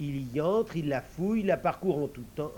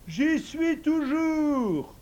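much higher, louder eager servant voice; invisible servant; 12 semitones higher, 6 dB louder, much slower than usual. Acted. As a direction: answer the master high and ready. Servant answers.

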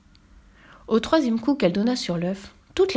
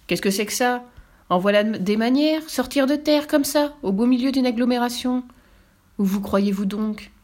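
angry scolding; 4 semitones higher than usual. Acted. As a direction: scold the intruder, raising the voice. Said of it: "Ils étaient tous les deux très fâchés". (réprimande indignée)

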